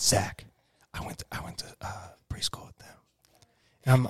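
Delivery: put-on whisper. Quoting what she tells him in a store, imitating someone whispering. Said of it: "I don't know why I'm whispering".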